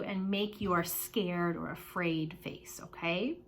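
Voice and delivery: hushed, slow, breathless whisper; scared whisper. Shown as a demonstration. Teacher whispering to kids about a scared face. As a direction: whisper it like you're frightened.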